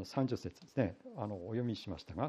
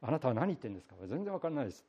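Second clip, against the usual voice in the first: feigned ignorance; 2 semitones higher, much faster than usual. Retold or imitated. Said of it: "ペテロはしらを切った".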